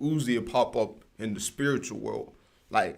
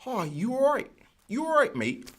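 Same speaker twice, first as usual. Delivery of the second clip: exaggerated British accent, pitched much higher; mock British accent; 11 semitones higher than usual. Mocking how listeners hear his voice, in an overdone British accent. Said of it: "This is how bitches be hearing it".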